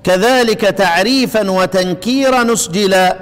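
slow, measured reading of didactic verse; verse recitation. Shown as a demonstration. Teacher reading the poem's lines to students, slow verse recitation. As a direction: recite the couplet slowly, drawing out the long vowels. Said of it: "قراءة الأبيات عشان اللي يحب يقرأها".

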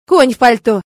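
loud, snarling comeback; fierce loud snap back; growled retort. A narrator's reading. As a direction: bite his head off. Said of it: "рыкнула на него эта непокорная львица".

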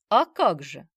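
loud cheerful exclamation; exclaiming. A narrator's reading. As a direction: toss it out proudly. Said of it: "воскликнул Володя". (громкое радостное восклицание)

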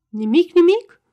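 high, loud alarmed cry of disbelief; frightened. A narrator's reading. Ion frightened at losing the land, crying out high and loud. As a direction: gasp it out in sudden dread. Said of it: "spuse Ion înspăimântat".

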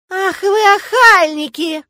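high, loud, drawn-out outrage; outraged high-pitched scolding shout; scolding warden. Acted. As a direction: bellow at intruders, stretching the words. Strict dorm warden scolds intruders.

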